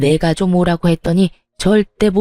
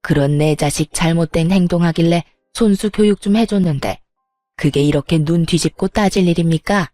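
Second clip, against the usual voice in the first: sneering sarcasm. Acted. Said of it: "얄밉게도 비아냥거리며".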